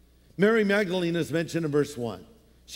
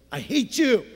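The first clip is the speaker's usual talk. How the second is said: mock grudge; 4 semitones higher than usual. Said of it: "Not really".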